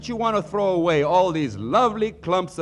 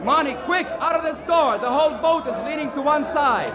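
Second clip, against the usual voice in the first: higher, pressing warning to get out; high urgent alarm; 9 semitones higher than usual. Acted. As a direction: hurry him out the door in a panic. Boat leaning, urging escape.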